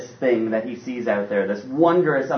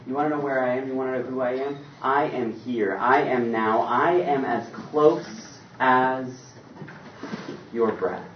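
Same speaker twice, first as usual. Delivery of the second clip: tender God voice. Acted.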